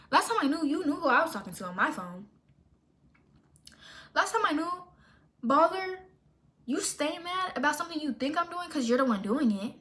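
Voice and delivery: high, pointed comeback; sassy clapback. Retold or imitated. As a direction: put her in her place. Retold clapback at Barbie.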